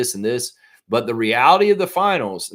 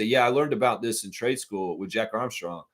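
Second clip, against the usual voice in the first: mock bossy boss; 5 semitones higher than usual. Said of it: "come down to the job site and say".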